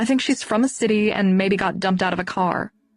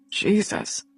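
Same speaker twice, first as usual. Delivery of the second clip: geschokt gefluisterd; 3 dB quieter than usual. Acted. Shocked reaction to hearing of bruises.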